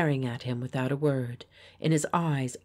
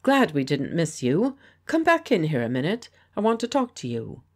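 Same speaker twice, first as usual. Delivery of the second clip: pleasant; 2 semitones higher, 5 dB louder than usual. Acted. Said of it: "said Geoffrey pleasantly".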